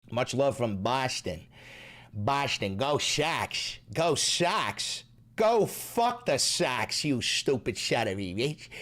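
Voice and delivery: badly faked Boston accent; horrible Boston accent. Reading a Boston fan's message, bad Boston accent. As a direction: put on a broad, clumsy Boston accent. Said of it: "That was a horrible Boston accent".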